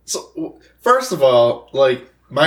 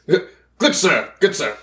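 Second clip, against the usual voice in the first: proper cat voice; 4 semitones higher than usual. Acted. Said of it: "I should probably have a cat voice".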